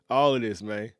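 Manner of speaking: usual speaking voice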